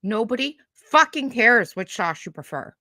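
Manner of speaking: loud, furious rant at the video; angry rant. Real, not acted. Ranting at Kaya's video, real furious. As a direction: chew her out, fuming.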